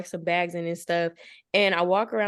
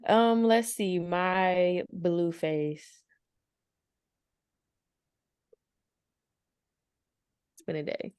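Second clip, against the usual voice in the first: talking while chewing gum; smacking gum mid-sentence. Real, not acted. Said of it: "I'm sorry if I'm smacking my gum".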